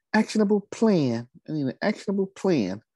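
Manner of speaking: dainty, light, little voice, very high. Quoting what Carmen said this morning, in Carmen's little light voice. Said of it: "she got that little light voice".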